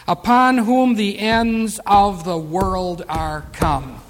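very slow, drawn-out verse; solemn pulpit reading; scripture reading. Acted. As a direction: intone the verse deliberately, word by word. Reads scripture aloud.

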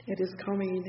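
ordinary delivery

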